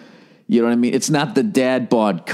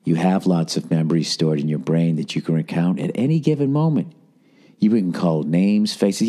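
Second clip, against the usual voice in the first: best yoga voice; 7 semitones lower than usual. Shown as a demonstration. Host mock-reads a self-help article in yoga voice. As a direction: read it like a serene yoga teacher. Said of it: "let me read in my best yoga voice".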